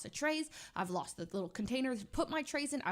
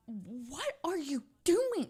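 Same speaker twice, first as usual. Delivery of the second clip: alarmed; 3 semitones higher, much slower than usual. Retold or imitated. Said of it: "I was like".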